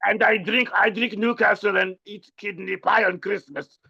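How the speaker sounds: overdone fake British listing habits; mock British accent. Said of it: "try to talk like a British person".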